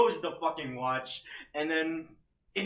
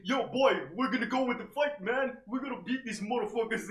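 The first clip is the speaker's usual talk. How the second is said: street slang voice; 7 semitones higher than usual. Retold or imitated. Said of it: "the most ghetto fucking characters".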